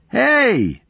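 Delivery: sharp high yell from a distance; calling out. A narrator's reading. Unseen man calling to Sarah, high distant yell. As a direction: call out to someone far away.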